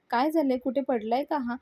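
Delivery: retold cross questioning; irritated questioning. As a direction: demand an explanation with a touch of annoyance. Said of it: "चिडून त्या बाकी गुंडांना विचारत असते".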